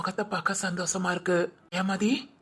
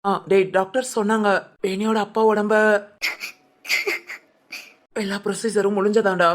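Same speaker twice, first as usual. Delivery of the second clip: urgent call; 5 dB louder than usual. Acted. Aunt hurries in with news.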